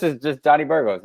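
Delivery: Johnny Burgos said the plain English way, JAH-nee BUR-gohs; English pronunciation. Shown as a demonstration. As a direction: give Johnny Burgos in simple English sounds. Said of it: "in English".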